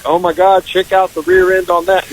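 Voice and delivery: obnoxious guy. Retold or imitated. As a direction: lightly play the loudmouth pal. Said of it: "that obnoxious guy".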